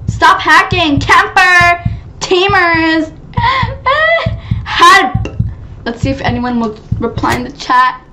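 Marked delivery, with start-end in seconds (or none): 0.1-5.3 calling for help. Real, not acted.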